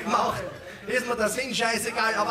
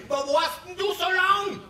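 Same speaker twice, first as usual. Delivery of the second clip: higher, questioning mum; mother's voice; 8 semitones higher than usual. Acted. Mother asks daughter where she was, higher voice. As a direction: ask like a curious mother.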